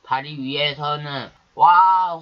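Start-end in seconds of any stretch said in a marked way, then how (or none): 1.5-2.2 loud happy whoop from the bridge; cheering shout. A narrator's reading. Boys on the bridge cheering at Donggil, loud whoop. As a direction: shout it out in triumph. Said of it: "환호성을 올리며".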